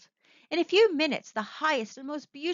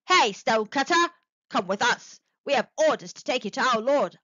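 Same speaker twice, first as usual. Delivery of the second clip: shouted; 5 dB louder than usual. Acted.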